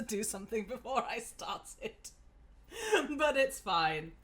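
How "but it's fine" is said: laughing it off. Real, not acted. Laughing off embarrassment.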